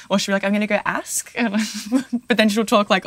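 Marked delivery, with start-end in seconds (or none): 0.4-1.3 lightly imitated British accent with a long A; a touch of British on "ask". Imitating her English-born friend, light British accent. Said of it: "a little bit of a British accent".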